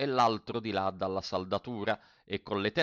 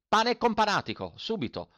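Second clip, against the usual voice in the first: put-on snapping old mender; 11 semitones higher, 3 dB louder than usual. A narrator's reading. Mender snaps back.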